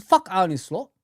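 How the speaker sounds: hammering it home like he did back then; a heated replay of his own old rant; retold loud rant. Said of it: "I said".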